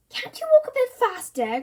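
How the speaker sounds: high, loud impatience; grumbled. A narrator's reading. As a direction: hurry him irritably. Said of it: "grumbled Mum".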